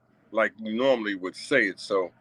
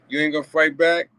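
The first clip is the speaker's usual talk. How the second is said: lightly imitated high mocking taunt; a hint of a higher taunting voice, louder; 6 semitones higher, 4 dB louder than usual. A vlogger mimics the bystander boyfriend, mildly high and taunting. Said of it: "He sounded like a woman".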